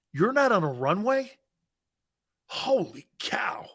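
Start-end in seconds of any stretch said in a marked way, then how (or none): 2.5-3.7 slow whispered amazement; awed whisper. Real, not acted. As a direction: breathe it out in disbelief. Awed by Texas women.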